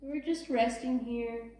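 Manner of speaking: unhurried, soothing yoga teacher voice; guided relaxation. Real, not acted. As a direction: ease them into rest, leaving long pauses. Leads restful child's pose.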